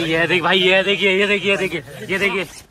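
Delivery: real panicked shout, words repeated urgently; चिल्लाते हुए. Real, not acted. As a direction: shout it urgently to make a friend look. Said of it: "चिल्ला मत, चिल्ला मत". (घबराकर चिल्लाते हुए)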